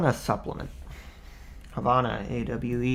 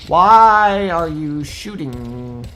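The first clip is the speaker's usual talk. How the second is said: exasperated yell; 5 semitones higher, 12 dB louder, much slower than usual. Real, not acted. Enemies shooting at streamer.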